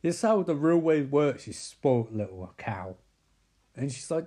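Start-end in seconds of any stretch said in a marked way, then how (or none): 0.0-1.4 higher, louder, arguing his point hard; indignant insistence. Retold or imitated. Man snapping at a woman over a PR stunt, raised indignant voice. 1.4-2.9 lower, slow, sneering put-down; sneering insult. Retold or imitated. Man insulting a spoilt woman, low slow sneer.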